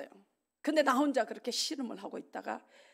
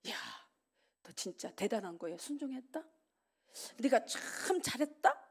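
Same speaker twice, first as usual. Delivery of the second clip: comforting inner voice; 5 dB quieter than usual. Retold or imitated. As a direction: gently praise him. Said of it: "이런 편안한".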